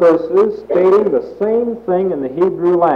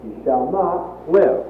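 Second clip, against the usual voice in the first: "You shall not live" slow, falling on "live"; slow and final. Shown as a demonstration. Preacher restating the prophet's verdict, slow and final. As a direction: let "not live" fall with weight. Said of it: "he tacked those last three words".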